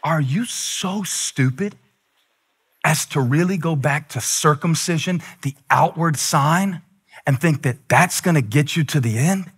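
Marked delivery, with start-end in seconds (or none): 0.0-5.2 hushed, measured scolding; quiet scary voice. Retold or imitated. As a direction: stretch it out softly like a threat. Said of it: "Holly's scary voice is her quiet voice".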